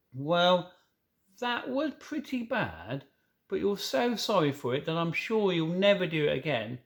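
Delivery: put-on slow, careful little girl voice; slow and gentle. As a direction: go gently, taking time. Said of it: "rather slowly".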